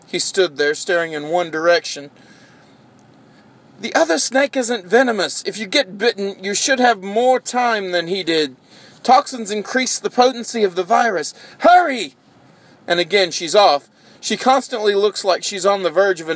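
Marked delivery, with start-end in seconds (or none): 3.8-12.1 high urgent voice, ending in a shout; anxious assistant. Acted. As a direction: press him to hurry. Alana urges the doctor.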